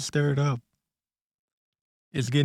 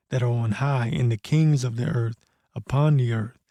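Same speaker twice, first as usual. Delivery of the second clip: scripture reading. Acted. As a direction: read it like a preacher reciting scripture. Reads scripture passage again.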